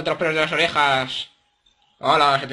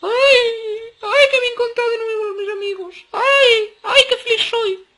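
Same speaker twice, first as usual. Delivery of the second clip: hammed-up sobbing, much higher and louder; mock crying; 7 dB louder than usual. Player jokingly weeping at the reunion of friends, hammed-up sobs. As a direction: wail like you're crying tears of joy, overplayed. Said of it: "Voy a llorar".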